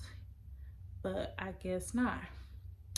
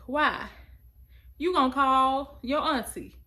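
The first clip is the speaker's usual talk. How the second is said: mom's sharp demand; 5 semitones higher, 8 dB louder than usual. Retold or imitated. Mom confronting her daughter.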